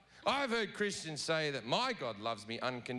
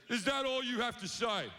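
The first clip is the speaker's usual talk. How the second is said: high, put-out question; needy God; 5 semitones higher than usual. Retold or imitated. God to the partygoers, high needy question. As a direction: fish for more praise, pitched up. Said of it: "And then God goes".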